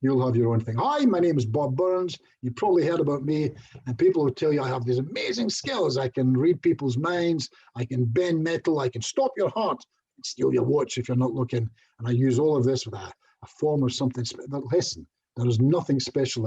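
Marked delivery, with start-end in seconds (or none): 0.8-3.5 presenter's opening line. Shown as a demonstration. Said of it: "I'll normally open with something like this". 4.6-11.7 boastful showman claims. Shown as a demonstration. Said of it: "I'll normally open with something like this".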